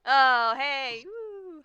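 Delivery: loud high yelp of excitement; sudden cry then a high woo; excited cry. Real, not acted. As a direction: burst out with a cry. Reacting to a bad roll.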